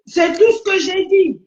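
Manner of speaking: high-pitched, exasperated protest; insistent. Real, not acted. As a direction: push back, voice rising high then falling. Heated defence of own statement.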